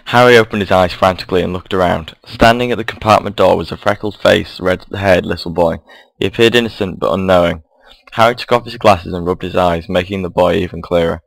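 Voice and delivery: lightly voiced storybook reading; story narration. A narrator's reading. Reading the Harry Potter fan story aloud to viewers, gentle narration. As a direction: tell it like a bedtime tale.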